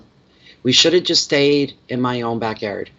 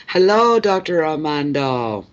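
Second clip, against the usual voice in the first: cheery greeting; 6 semitones higher, 4 dB louder, slower than usual. Real, not acted. Greeting a live viewer.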